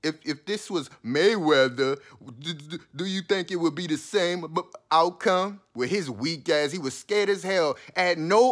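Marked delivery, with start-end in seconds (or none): 0.0-5.6 imitating a nervous stammer, tripping over each word; hammed-up stuttering question; mock stutter. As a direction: stammer it out like he's scared to ask. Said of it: "he goes to stuttering".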